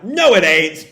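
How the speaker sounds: loud mock snap; snapping. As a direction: snap back in firm objection. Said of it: "both snap".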